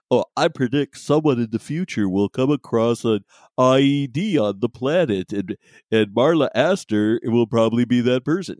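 lightly voiced fortune-teller; measured, mock-prophetic delivery; mock psychic prediction. Co-host imagines a useful psychic prediction, mock-solemn.

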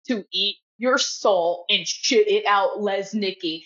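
slow, measured mock menace; mad, mean threat. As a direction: imitate a vicious threat, drawn out slowly. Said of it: "starts getting so fucking mad".

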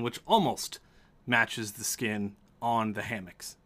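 deliberate narration with dramatic pauses; game master's scene setting. A narrator's reading. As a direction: lay out the room piece by piece.

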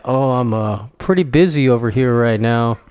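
a hint of a low-pitched film impression; Damone from Fast Times. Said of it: "Damone from Fast Times at Ridgemont High".

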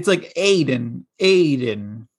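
AIDEN said slowly with no H at the start; dropped H. Shown as a demonstration. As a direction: stretch out "Aiden", starting straight on the vowel. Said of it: "take away the H's".

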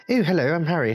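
a hint of a polite boy introducing himself; Harry Potter. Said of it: "you got Harry like".

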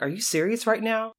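exasperated disbelief. Retold or imitated. Caregiver exasperated at singing girl.

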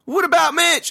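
high, distressed shout; calling back. A narrator's reading. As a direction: yell back in fear for your brother. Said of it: "I called back".

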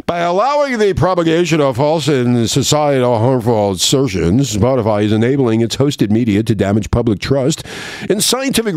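warbling alien voice reading a letter; clicking alien voice. Acted. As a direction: read it like a chattering alien. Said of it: "it's my alien voice".

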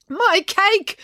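high, dismayed wail. A narrator's reading. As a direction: wail it high over a lost treat. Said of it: "wailed Doctor Hilary".

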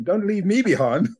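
high, mock-whiny protest; half-joking high-pitched "what about me"; mock plea. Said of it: "And I'm like".

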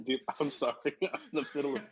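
talking through a mouthful; eating while speaking; chewing while talking. Real, not acted. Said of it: "I'm also eating right now".

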